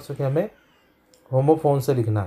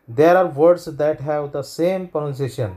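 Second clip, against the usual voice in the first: slow, careful reading of a textbook rule; much slower than usual. Shown as a demonstration. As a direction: spell out the rule slowly for students. (धीमी आवाज़ में नियम पढ़ना)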